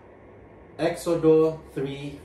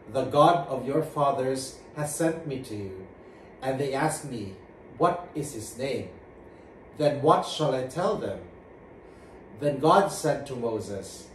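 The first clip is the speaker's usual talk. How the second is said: solemn scripture reading to the congregation. Acted. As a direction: read the verses like a lector. Reads Exodus passage aloud.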